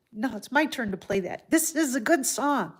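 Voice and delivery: a playful dog insisting on its turn, in a hint of a put-on voice; voicing the dog. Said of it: "And she started".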